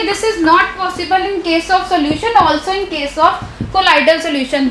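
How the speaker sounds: slow, even, word by word for notes; slow dictation. Shown as a demonstration. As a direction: read each word out as they write it. Teacher dictating notes to class. (धीरे धीरे notes लिखवाना)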